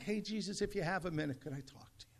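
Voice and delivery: softly asking, trailing away almost to nothing; meek little ask, fading out; polite, casual request. Acted. Preacher mocking how the desperate father did not speak, meek and soft. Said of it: "He's not talking. He's not like".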